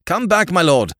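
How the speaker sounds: high, loud desperate cry; agonized cry. Acted. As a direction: cry out in sudden agony. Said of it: "cried the man in a sudden agony".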